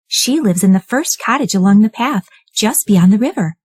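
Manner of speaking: put-on high, sweet little girl; high girlish voice for Red Riding Hood. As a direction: play the eager young girl. Red tells wolf the way.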